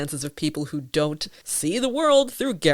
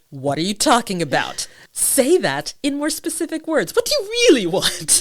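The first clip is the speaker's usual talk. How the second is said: demanding clarity; 7 semitones higher, 4 dB louder than usual. Retold or imitated. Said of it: "I'm like".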